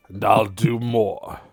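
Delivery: slow, unrepentant cowboy drawl; cold cowboy. Acted. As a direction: say it slow and unbothered. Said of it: "you hear him go".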